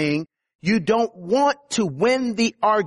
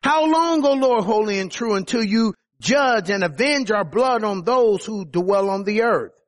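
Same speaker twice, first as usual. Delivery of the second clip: raised-pitch plea, only slightly louder; mild imitated crying out; 3 semitones higher than usual. Slain souls pleading to God for justice, mildly crying out. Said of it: "They cried out with a loud voice".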